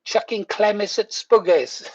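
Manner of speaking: repeated Geordie phrase, lighter; Geordie accent. Retold or imitated. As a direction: say it again in broad Geordie. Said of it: "I was going".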